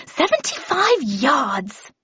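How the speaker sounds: slow, drawn-out call down the garden; a mild hammed-up shout across the garden; calling out the distance. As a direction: call it out to someone far off. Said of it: "then yelling".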